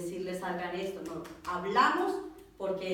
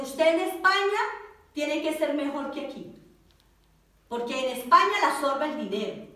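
raised, emphatic warning voice; 4 semitones higher, 5 dB louder than usual. Retold or imitated. Woman preacher warns the sister bound for Spain, emphatic warning. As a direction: warn her firmly, voice lifted.

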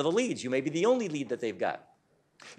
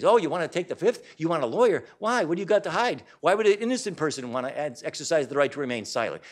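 louder, needling mock accusation; insinuating cop; 2 semitones higher, 4 dB louder than usual. Police officer pressing a suspect, mock insinuating. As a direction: sneer it like a suspicious cop.

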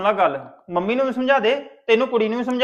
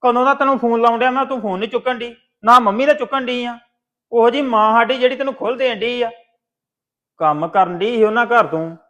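angry brother; 4 dB louder than usual. Acted. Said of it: "ਗੁੱਸੇ ਵਿੱਚ ਕਾਹਤੋਂ ਪੈਣ ਡੇ ਇੰਨਾ?".

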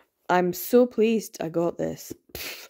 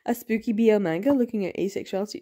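mock excitement; 3 semitones higher than usual. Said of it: "and I was like".

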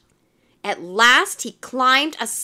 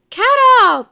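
high, loud swooning call; long high-pitched squeal; crying out; 12 semitones higher, 11 dB louder than usual. A narrator's reading. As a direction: call out to him like an adoring crowd. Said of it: "they cried".

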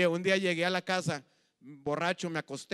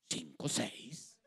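put-on slurred drunk counting; 9 semitones lower, 10 dB quieter, much slower than usual. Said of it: "en mi borrachera".

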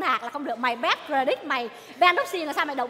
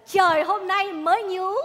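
slow, drawn-out poem recital, with a slightly higher start; 3 semitones higher, 4 dB louder, slower than usual. Acted. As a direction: recite it like a solemn verse again. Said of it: "mày ngâm lại tao chơi liền".

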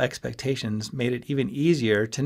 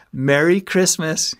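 slow, louder and higher, loaded with meaning; meaningful; 7 semitones higher, 6 dB louder, slower than usual. A narrator's reading. Friend hinting at his plan, slow and meaningful. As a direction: say it pointedly, drawn out. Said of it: "he added meaningfully".

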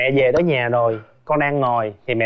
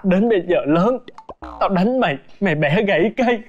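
dramatic mother; 3 semitones higher than usual. Retold or imitated. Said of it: "là chính kịch vậy luôn hả".

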